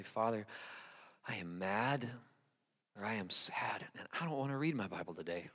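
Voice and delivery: hushed, low confession to God; honest, vulnerable prayer. Acted. Preacher models an honest prayer to God, hushed. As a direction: pray it very softly, almost whispering. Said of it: "you ever pray and say".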